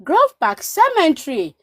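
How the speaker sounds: a loose impression of a recorded bus announcer; bus announcement voice. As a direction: recite it like the bus speaker at the last stop. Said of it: "I just heard".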